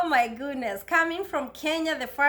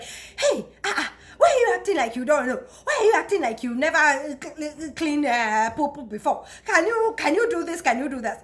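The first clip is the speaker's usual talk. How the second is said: mean trainer quoted; 2 semitones higher, 3 dB louder than usual. Retold or imitated. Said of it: "she was like".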